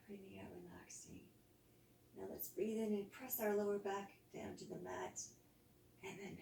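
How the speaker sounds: soft guided body scan, exhales whispered; calm yoga teacher voice easing the class into rest; guided relaxation. Acted. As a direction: lead them gently through tensing and letting go.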